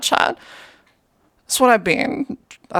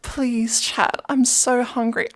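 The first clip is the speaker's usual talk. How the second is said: kitten voice; 5 semitones higher, slower than usual. Pretend. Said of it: "Is it better if I'm like".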